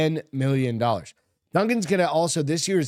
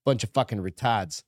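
New England accent; 2 semitones lower than usual. Shown as a demonstration. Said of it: "if I were to say it the right way".

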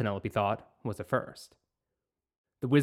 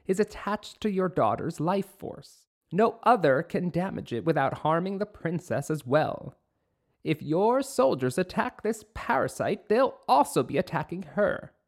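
high, earnest witch voice; 5 semitones higher than usual. Acted. Witch explains to the king.

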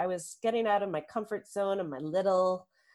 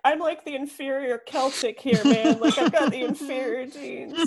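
imitating husband; 7 semitones higher, 7 dB louder than usual. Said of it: "and he's like".

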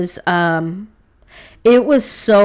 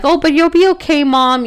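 put-on much higher, sweet little-girl voice comforting mom; imitating her daughter; 7 semitones higher than usual. Daughter comforting her crying mother, high childlike imitation. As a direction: lift into a small child's voice, consoling. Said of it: "And she's like".

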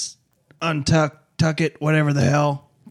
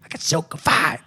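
sultry boast; 3 semitones higher than usual. Acted. Repeated boast, higher.

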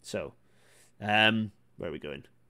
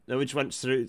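normal talking voice

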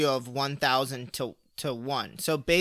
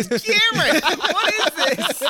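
laughing high and loud; cracking up while calling Cameron out; laughing disbelief; 13 semitones higher, 6 dB louder, slower than usual. Real, not acted. Laughing mock outrage.

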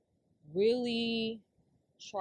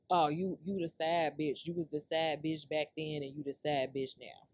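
low, deliberate mock insult; retold taunt; 5 semitones lower than usual. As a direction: read the taunt out lower and unhurried. Reads out the taunting text.

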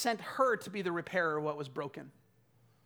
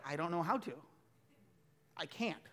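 softer, unsure voice, backing away; hesitant refusal; 3 semitones lower, 7 dB quieter than usual. Retold or imitated. Missionary to the addict, soft and unsure. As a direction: protest quietly that you can't.

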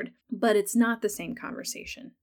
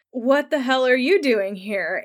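exasperated Jamie; 4 semitones higher, 4 dB louder than usual. Retold or imitated. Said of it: "he is like".

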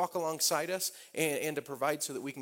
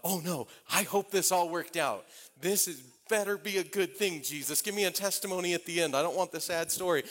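mildly anxious, higher-pitched plea; acting out a pleading worry; worried plea; 5 semitones higher than usual. Preacher retells begging Jesus for a good outcome, worried plea.

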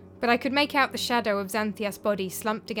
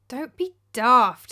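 calmly; 3 semitones higher, 8 dB louder, slower than usual. A narrator's reading. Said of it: "said Aristo calmly".

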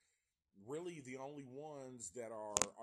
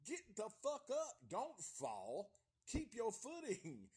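much higher and louder, urging a falling victim; shouting at the screen; 8 semitones higher, 4 dB louder than usual. Acted. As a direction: yell at her to get up. Yelling at horror movie victim.

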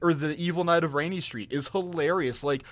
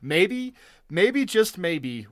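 slow teasing buildup; 3 semitones higher, much slower than usual. Real, not acted. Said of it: "teasing buildup".

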